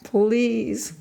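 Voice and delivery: high, strained plea; tortured woman begging, crying out. A narrator's reading. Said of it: "I cried".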